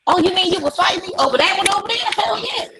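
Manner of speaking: pitched high, cocky and challenging; defiant teen voice. Retold or imitated. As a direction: play the girl daring a fight. Girl's defiant high voice in quarrel.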